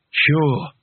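put-on lightly slurred drunken voice. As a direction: slur it as if drunk on power. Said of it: "slurred Rincewind".

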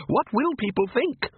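high, slow fussy lady; grand mother. A narrator's reading. Mother scolds Igor, high and slow. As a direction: fret like a snobbish matron. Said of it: "Mother commanded".

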